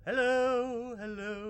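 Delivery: loud warbly distorted hello; glitchy headset distortion; alien voice. Real, not acted. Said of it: "You sound like an alien on this one".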